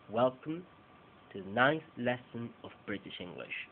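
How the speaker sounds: "to the" and "of" reduced to schwa in British English; schwa-reduced reading. Shown as a demonstration. Teacher modelling the sentence for Spanish-speaking students, reduced weak forms. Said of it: "vamos a empezar palabra por palabra".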